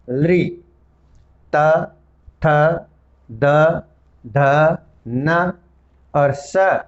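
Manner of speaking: each dental letter said alone and clearly, with pauses between; dental letter demo. Shown as a demonstration. Teacher sounding out the dental letters for students to feel. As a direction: sound out the dental row slowly. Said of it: "जैसे आप उच्चारण करके, अनुभव करके देख सकते हैं".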